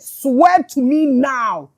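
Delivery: demanding Jacob. Acted. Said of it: "Jacob said".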